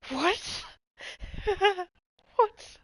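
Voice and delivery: cracking up in disbelief, voice jumping high and loud; a stunned laugh-filled what that keeps climbing. Real, not acted. Bursts out laughing at image.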